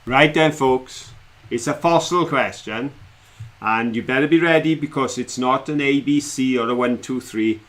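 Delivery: slow, dramatic quiz question read; quiz host. Acted. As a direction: build suspense like a quizmaster. Quiz master reads question.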